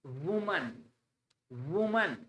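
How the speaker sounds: "वुमन" with a short u and a neutral schwa; correct pronunciation. Shown as a demonstration. Teacher drilling students on woman. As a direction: repeat "वुमन" softly and clearly. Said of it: "गलत".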